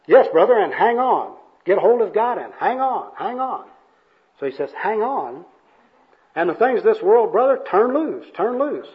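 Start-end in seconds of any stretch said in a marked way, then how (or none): 0.1-3.7 loud, high evangelist urging; hammed-up revival fervor; fervent exhortation. Acted evangelist exhorts the bum. 4.7-8.9 high-pitched, mostly loud preaching; hammed-up evangelist fervor; fervent exhortation. Acted evangelist exhorts the bum.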